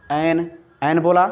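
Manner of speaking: एन said slowly, tongue up; stretched एन, एन; slow demo. Shown as a demonstration. Teacher showing students how एन is said. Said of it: "एन बोला तो खुद ही जुबान काम कर रही है".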